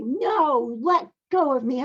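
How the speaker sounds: retold shout. Mild mock shout of no, let go. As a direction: son yelling at his mother to let go. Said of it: "he shouted back at me".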